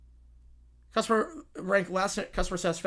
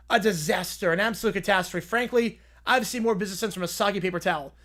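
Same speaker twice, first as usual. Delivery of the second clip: blustering tycoon boss. Acted. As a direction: puff up like a reality-TV boss. Plays Apprentice boss.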